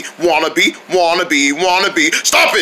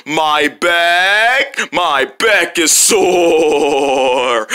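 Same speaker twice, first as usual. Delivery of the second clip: mock injured groan; 5 semitones lower, much slower than usual. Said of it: "He went like".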